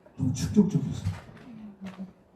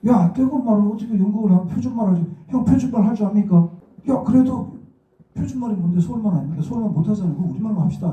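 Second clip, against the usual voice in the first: higher-pitched, re-enacted debate with seniors; retold argument; 6 semitones higher, 3 dB louder than usual. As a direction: act out both sides of a heated dispute. (선배들과의 설전을 재연하듯)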